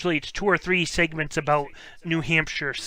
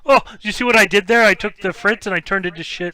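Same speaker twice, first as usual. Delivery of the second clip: excited; 5 semitones higher, 7 dB louder than usual. Real, not acted. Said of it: "pleased with his own pun".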